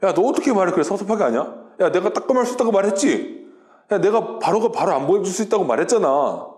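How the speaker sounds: quick-starting, mildly peeved scolding; mock hurt. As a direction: play at telling off someone who didn't listen. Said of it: "전도사님이 이렇게 말했을 거거든요". (섭섭해서 타박하는 척)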